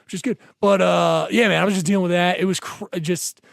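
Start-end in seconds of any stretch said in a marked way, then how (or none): 0.0-0.4 much softer, lower, trailing off; muttered aside. Real, not acted. Telling friend about his love life, dropping to a mumble. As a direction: mutter it to yourself.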